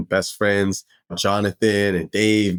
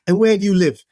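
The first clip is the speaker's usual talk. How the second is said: much higher, louder pointed question; spring the trap question, pitched up high; mock Dave Stewart; 10 semitones higher, 4 dB louder than usual. Dave catching Derek out on where he lives, high mock voice. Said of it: "He's like".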